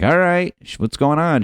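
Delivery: hammed-up "uh-oh" boyfriend on the phone; wary boyfriend. Boyfriend answers breakup call.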